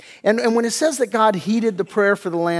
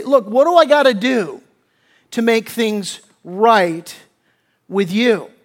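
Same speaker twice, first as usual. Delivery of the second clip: raised, forceful voicing of David's plea; emphatic plea; 3 semitones higher, 6 dB louder than usual. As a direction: press the request hard, then slow down. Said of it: "structured in an emphatic way".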